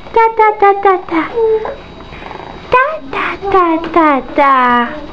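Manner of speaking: high playful da-da chant; babbling syllables. Shown as a demonstration. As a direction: model the syllables in a singsong. Modelling syllables for the baby.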